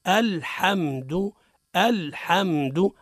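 الحمد very slowly with clear hamza and short "du"; repeat-after-me demonstration. Shown as a demonstration. Teacher helps a learner who slipped, slow model pronunciation. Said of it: "يعاودوا معانا".

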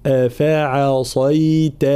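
أفعصيت slow, thin hamza and fa, emphatic ص; light and heavy letters. Shown as a demonstration. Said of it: "هكذا". (أفعصيت بالتمييز بين المرقق والمفخم)

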